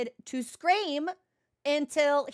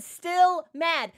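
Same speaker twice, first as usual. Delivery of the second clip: slow, higher, louder drawn-out pout; stubborn sulky cat; 4 semitones higher, 6 dB louder than usual. Retold or imitated. Cat refusing snuggles, slow, higher and louder pout. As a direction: drag it out like a cat refusing comfort. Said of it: "He's like".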